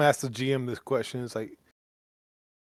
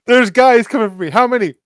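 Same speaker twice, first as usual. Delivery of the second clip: excited; 8 semitones higher, 11 dB louder than usual. Real, not acted. Laughing panic at incoming enemies.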